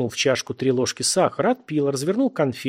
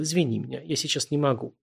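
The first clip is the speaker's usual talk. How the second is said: feigned politeness; 5 dB quieter than usual. Acted. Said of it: "наигранно вежливым напряжённым голосом".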